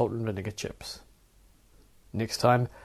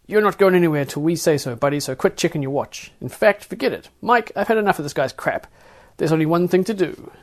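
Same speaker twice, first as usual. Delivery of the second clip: higher, louder, losing patience; fed-up guard; 5 semitones higher, 5 dB louder than usual. Acted. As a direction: TS tells Mike she has had enough, angry. TS loses patience.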